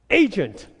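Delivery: firm, loud words for the machine; calling for an agent, loud and firm. Retold or imitated. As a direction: say it loud so she hears. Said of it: "I say that really loudly".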